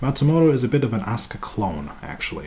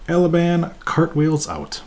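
ordinary talk

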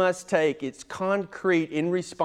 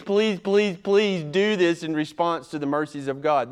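more strained, pinched begging, then settling; mock pleading; 2 semitones higher than usual. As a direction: keep up the mock plea with a squeezed voice. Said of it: "respond by going".

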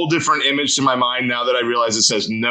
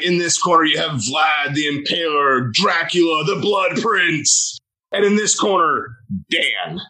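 boxing ring announcer; 2 semitones higher than usual. Retold or imitated. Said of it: "it sounded like a ring announcer".

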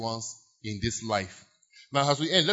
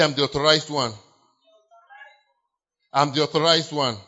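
declaring; 6 dB louder than usual. Shown as a demonstration.

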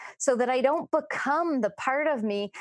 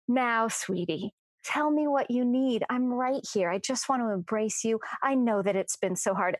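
nurturing mother voice. Retold or imitated. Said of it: "I hear her in my mind's eye say".

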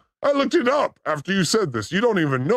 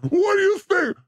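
demonic layered voice; 10 semitones higher than usual. Pretend. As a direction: growl it like a demon on air. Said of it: "he can't hear the demon voice".

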